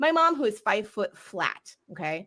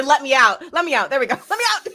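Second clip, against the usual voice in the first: laughing; 3 semitones higher, 6 dB louder, faster than usual. Pretend.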